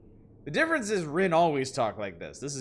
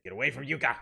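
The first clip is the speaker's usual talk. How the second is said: voicing Rin's angry demand; translating the girl telling him off; Rin's line; 2 semitones lower, much faster than usual. Streamer voicing Rin to Yuta, mock angry.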